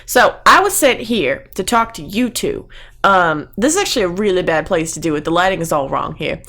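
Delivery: badly faked Southern smooth talker; amateur Texan accent; bad Texas accent. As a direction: coax the guards in a put-on Texan accent. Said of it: "I have a terrible accent".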